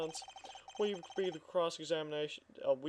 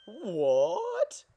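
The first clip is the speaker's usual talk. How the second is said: higher, louder startled What; shocked cry; 5 semitones higher, 5 dB louder than usual. Acted. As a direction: yelp out in disbelief. Witness caught in contradiction.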